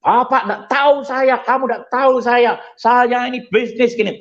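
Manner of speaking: high, angry mock rant; angry passenger. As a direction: shout down the airline staff. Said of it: "ngebrak-ngebrak meja". (penumpang marah-marah dengan suara tinggi)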